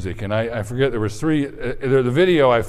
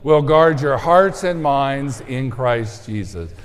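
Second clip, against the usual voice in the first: slow, louder verse reading; group recitation; 3 dB louder, slower than usual. Shown as a demonstration. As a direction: lead everyone in unison. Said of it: "Okay, everyone together".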